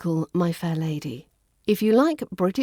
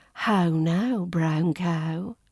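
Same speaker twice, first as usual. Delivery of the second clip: well-spoken British; 2 semitones lower, much slower than usual. Shown as a demonstration. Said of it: "well-spoken British English accent".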